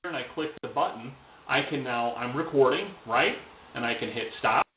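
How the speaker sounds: quiet playback of a recording; like a small speaker replaying it; played back recording. Real, not acted. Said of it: "take a listen to it".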